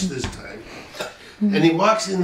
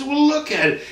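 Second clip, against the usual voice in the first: higher-pitched pointing out; higher, insistent well; pointed look; 10 semitones higher than usual. Retold or imitated. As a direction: raise the voice to point it out. Friend pointing out flaw.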